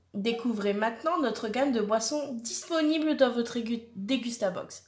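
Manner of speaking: measured, promotional reading voice; product blurb read-out. Acted. Reading a drink brand's promise to viewers, product blurb read-out. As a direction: read out the brand's pitch, evenly articulated.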